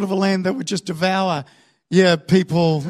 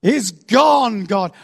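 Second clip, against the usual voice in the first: high, drawn-out indignant cry; hammed-up outraged wail to heaven; yelling at God; 9 semitones higher, 3 dB louder, slower than usual. Israelites finding the good stuff gone, yelling at God. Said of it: "then they yell at God".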